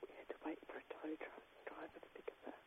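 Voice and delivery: hushed, secretive phone whisper. Real, not acted. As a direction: keep it down so nobody hears. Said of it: "why are we whispering".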